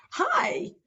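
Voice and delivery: high, glad phone hello; happy greeting. Shown as a demonstration. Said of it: "I'm happy to hear from you".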